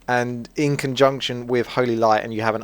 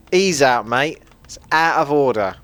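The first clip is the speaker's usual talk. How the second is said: put-on London geezer accent, a bit louder; hammed-up London accent; 3 semitones higher, 4 dB louder than usual. Gamer hamming up a London geezer accent for viewers. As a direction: ham up a London geezer telling a mate off. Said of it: "Get a bit more of my accent in there".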